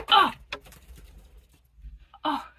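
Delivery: hushed whisper so Carl won't hear. Real, not acted. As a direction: breathe the words, hiding. Hiding in closet, hears someone.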